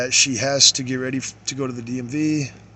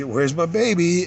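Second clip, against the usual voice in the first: put-on tender baby talk; 5 semitones higher, 3 dB louder than usual. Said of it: "and I'd say".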